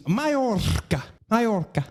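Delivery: "Majorca" with a heavy rolled r; exaggerated Spanish pronunciation. Shown as a demonstration. Comedian still retrying the island's name, Spanish pronunciation. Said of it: "you can't do it".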